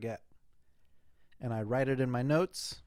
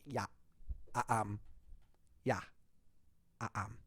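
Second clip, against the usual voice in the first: chick voice; 3 semitones lower, 6 dB quieter than usual. Retold or imitated. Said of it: "a chick voice".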